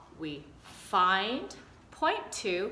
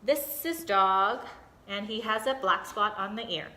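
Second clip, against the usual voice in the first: put-on child reading aloud. Shown as a demonstration. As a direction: show how a child retells the page. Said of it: "So this is something that they might do".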